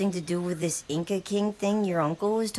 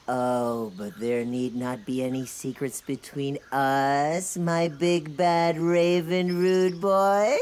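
man doing a woman's voice; 3 semitones lower, much slower than usual. Acted. Raven lady seduces.

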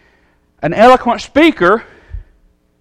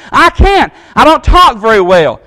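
whining Moses; 3 semitones higher, 4 dB louder than usual. Pretend. Moses pleading his excuse.

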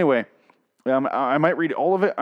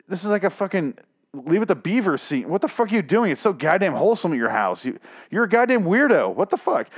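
higher-pitched, incredulous tirade; exasperated rant; 5 semitones higher than usual. Real, not acted. Reader scolds author over dog story, exasperated rant. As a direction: berate the writer in comic outrage.

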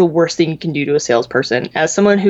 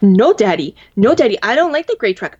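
put-on whiny toddler; 4 semitones higher, 4 dB louder than usual. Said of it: "I'm assuming, like".

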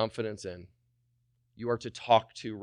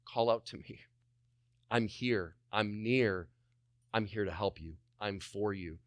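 soft, gradually lower comforting voice; gentle reassurance; 3 semitones lower, 7 dB quieter than usual. Acted. Holy Spirit calling to the one praying, gently reassuring. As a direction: reassure softly, with room between phrases.

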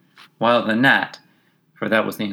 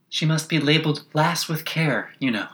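gentle, higher distant voice; 6 semitones higher than usual. A narrator's reading. Unseen passenger remarking on Alice, very gentle voice. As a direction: lift it lightly, as if from along the carriage. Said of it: "a very gentle voice in the distance".

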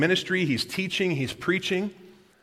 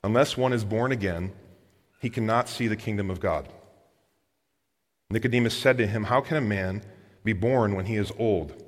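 lower, measured read-aloud voice; understated Bible reading; Scripture reading; 5 semitones lower than usual. A narrator's reading. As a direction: read the passage out evenly and low.

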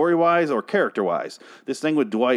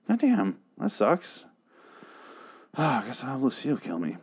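higher-pitched, put-on realization of a blunder; hammed-up "oh man" regret; mock dismay; 4 semitones higher than usual. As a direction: play someone haplessly resigned to their own mistake. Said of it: "could have gotten the note on his person and be like".

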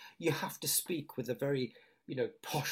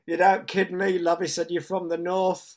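shopkeeper; 6 semitones higher, 9 dB louder than usual. Retold or imitated. Shopkeeper sees through her.

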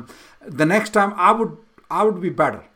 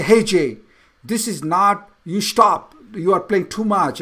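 mildly heated telling-off, somewhat louder; frustrated scolding; 4 dB louder than usual. Retold or imitated. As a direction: re-enact a father's frustrated outburst. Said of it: "express myself in a frustration and just anger".

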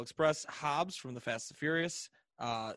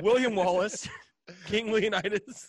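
hyped up; 6 semitones higher than usual. Real, not acted. Hyping up epic hero picks.

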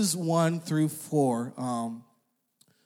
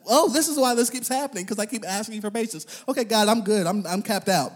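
realization; 6 semitones higher than usual. Retold or imitated. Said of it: "until I realized that".

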